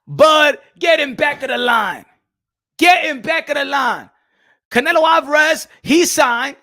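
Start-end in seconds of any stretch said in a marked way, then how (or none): 0.1-4.1 loud call across the room; shout. Real, not acted. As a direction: call him back to the line. Calling out to Bud.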